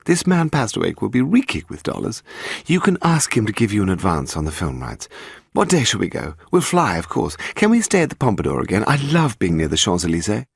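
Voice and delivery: a hint of an excited young wife planning Paris.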